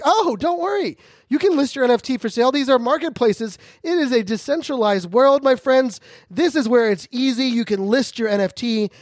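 high, fast, overly cheerful salesy voice; upbeat hammed-up helper voice; mock cheery guide. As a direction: chirp it like an eager tour guide. Cheery helper explains marketplaces.

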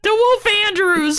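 very high mock falsetto; put-on girl voice. Naming co-host's new persona in a girl voice. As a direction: chime in with a squeaky pretend-girl voice. Co-host joins the falsetto game.

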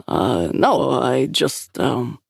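halting, unsure start that trails off; faltering. A narrator's reading. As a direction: stumble over the words, caught out. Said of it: "he faltered".

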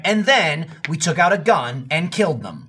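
imitating Steven's matter-of-fact deadpan; deadpan sarcasm. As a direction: say something outrageous as routine narration. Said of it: "deadpan sarcasm".

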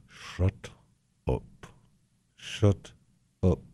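soft urgent whisper; whispered shut up. Retold or imitated. Friend gripping my arm, a whispered shut up. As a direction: hush him under the breath. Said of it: "squeezing my arm going".

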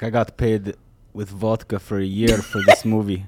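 put-on Russian accent. Playing the beaten actor paid in vodka, Russian accent. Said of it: "you hear the Russian accent".

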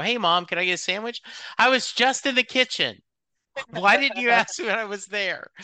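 put-on hurried childish protest that breaks into a laugh; imitating a whiny kid.

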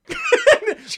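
high, loud burst of laughter; a sudden high laughing fit. Real, not acted. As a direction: crack up loudly.

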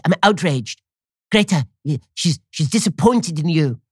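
slow, mocking teen scold. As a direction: parody a disappointed teenager. Mimicking Greta's scolding.

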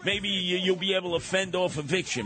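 hopeful group voice. Retold or imitated.

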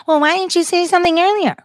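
quick, high, put-on voice of a doubter; mocking questioner. Doubter challenging the speaker about staying silent, mock skeptical voice. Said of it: "someone will be like".

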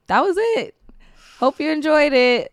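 lightly voiced breezy farewell; high, casual goodbye; Candace Parker voice. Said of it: "totally be Candace to be like".

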